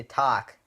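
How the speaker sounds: "talk" as TAHK with nasal ah. Shown as a demonstration. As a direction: hit "talk" with an open, nasal ah. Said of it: "kinda like a nasal ah".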